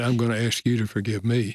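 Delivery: ordinary delivery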